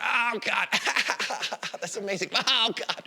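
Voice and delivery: high, loud, hammed-up groan of pleasure; playing it up as if it felt great; mock ecstatic. Friends mocking a punch to the balls, high hammed-up ecstasy.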